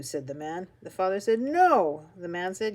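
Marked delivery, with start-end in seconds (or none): 1.4-2.1 loud, higher, emphatic refusal; stubborn dad raising his voice; arguing refusal. A narrator's reading. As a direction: refuse firmly in a rising argument. Father arguing with cashier.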